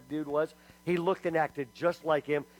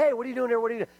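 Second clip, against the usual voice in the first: surprised greeting; 7 semitones higher, 4 dB louder, much faster than usual. Retold or imitated.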